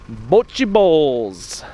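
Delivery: loud, delighted shout of the name; happy loud cry; excited exclamation. Real, not acted. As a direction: announce the find with glee. Exclaiming over the find.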